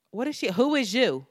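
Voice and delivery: imitated brash Philly challenge; most Philly way. Girl confronting Fran on South Street, most Philly way. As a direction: put on a blunt Philly street voice. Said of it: "in the most Philly way".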